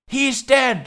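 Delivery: high, loud sketch quote; Monty Python parrot sketch. Retold or imitated. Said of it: "the parody sketch".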